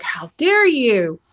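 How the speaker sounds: slow, drawn-out mock outrage; mad, indignant. Angry person confronting the one who spilled secrets, mock indignant. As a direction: stretch it out as an affronted rebuke. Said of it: "you're mad at me and you're like".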